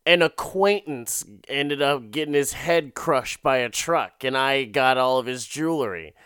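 retold dodgy excuse, pitched slightly up; suspicious excuse. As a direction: imitate someone telling an implausible cover story. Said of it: "the most suspicious bitch in the world".

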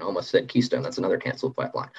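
fast, half-whispered afterthought; quiet aside. Real, not acted. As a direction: toss it off under your breath. Quick aside after misspeaking.

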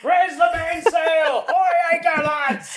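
high, hammed-up pirate captain shouting orders; mock pirate crying out to his crew. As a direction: bellow it like a cartoon pirate on deck. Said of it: "The pipe pirate".

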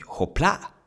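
high, loud tossing cry; exclaiming. Acted. Monkey throwing up the stone, crying out. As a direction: shout it with showy ease. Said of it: "még kiáltott is".

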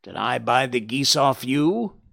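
shouted. Acted. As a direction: scold a pest as the fed-up salesman. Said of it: "he shouted".

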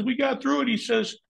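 a high mock voice for the boss; imitating the boss.

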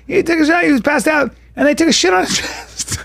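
high-pitched retold disbelief; imitating blown away. Brother imitating his sister on the phone, blown away. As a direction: mimic a stunned sister, pitched right up. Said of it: "she was so blown away".

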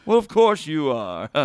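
dropping voice deep. Retold or imitated. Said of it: "why are you making your voice sound so deep".

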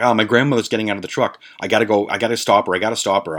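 hurried, mildly panicky retelling; retold freaking out. Telling the cops about grandmother leaving the truck, retold mild panic. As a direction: rush it like pleading to get away. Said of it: "now I'm freaking out".

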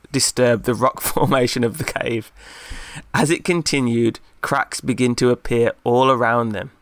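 usual speaking voice

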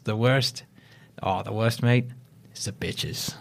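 imitated South African accent, soft and trailing off. Agent retelling a building manager's complaint, South African accent. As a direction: imitate an older South African man, quietly. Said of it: "I gotta do the accent for this part".

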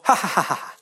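short, even burst of fake ha-ha laughter; quick mock laugh. Comic mimicking a polite audience's too-quick laughs, clipped mock laughter. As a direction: imitate a polite laugh that stops abruptly. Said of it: "their laughs were just so quick".

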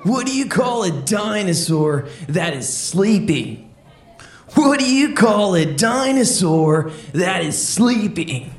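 a hint of a chill beach dude telling jokes; surfer dude voice. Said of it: "Let's keep it going for Sean the Surfer".

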